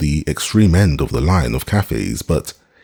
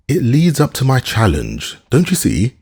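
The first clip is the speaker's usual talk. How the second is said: higher, bright eager delight; beaming; 8 semitones higher than usual. Acted. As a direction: beam with tipsy glee, voice lifted.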